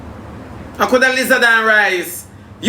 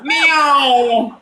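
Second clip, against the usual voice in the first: playful meow; 6 semitones higher, much slower than usual. Pretend. Teasing about cat-print pants.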